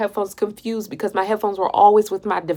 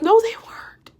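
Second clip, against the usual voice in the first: high-pitched protest; 11 semitones higher than usual. Retold or imitated. Woman contradicts fiancé about broken headphones, high protest. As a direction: voice shoots up in denial.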